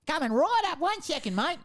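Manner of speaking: put-on high-pitched little old man voice; put-on granddad voice. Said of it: "that's the voice I hear".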